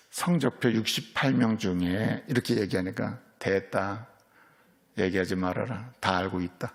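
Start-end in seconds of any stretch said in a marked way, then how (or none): 3.4-6.7 low, soft, hushing the son; an old father gently cutting off a confession; quiet fatherly calm. Retold or imitated. Old father calmly stops son. (조용하고 다정한 아버지 목소리로)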